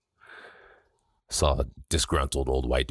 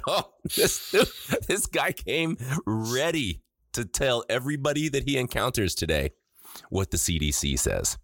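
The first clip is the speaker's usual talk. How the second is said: higher, slow mocking sarcasm; sarcastic retort; 7 semitones higher, slower than usual. Friend retells his sarcastic jab at the maskless man, high and slow. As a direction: needle him with slow sarcasm.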